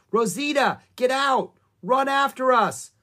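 high, loud urgent shout; calling out. A narrator's reading. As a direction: call loudly across a distance. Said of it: "called Annie".

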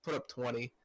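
clipped, distorted mic; mic peaking. Real, not acted.

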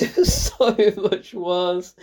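slow, stretched SO through laughter; laughing emphasis. Real, not acted. Critic repeating how much worse it was, laughing. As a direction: laugh as you drag out the verdict.

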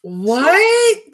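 loud, rising, stretched-out what; shocked disbelief. Real, not acted. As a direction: cry out in real disbelief. Shocked reaction to stolen car story.

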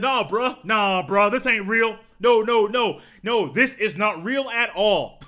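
no, no, no, this can't be real; disbelieving outburst. Retold or imitated. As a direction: refuse to believe the news out loud. His reaction to the retirement tweet.

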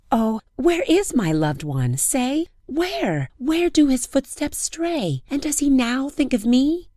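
high pleading lament; plaintive lament. Acted. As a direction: beg the moon for pity. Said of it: "she said to the moon".

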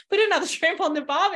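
loud, high-pitched mock Aussie; mock Australian accent. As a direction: tease with a hammed-up Australian catchphrase. Teasing Australian clients with mock catchphrase.

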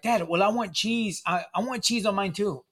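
a hint of a kid asking Dad; pleading little girl. Voices small daughters asking for cheese.

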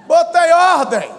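loud, slow, drawn-out boast; triumphant, stretched-out declaration; proud boast. Retold or imitated. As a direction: savour each word, loudly and proudly. Boasting repeat of his own reply.

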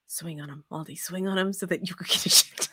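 giggling through a mock cheer; laughing while urging a brawl; laughing egging on. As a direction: egg him on while laughing. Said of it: "a part of me was like".

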